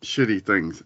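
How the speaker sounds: talking through hiccups; hiccupy speech. Real, not acted. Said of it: "I have the hiccups for some reason".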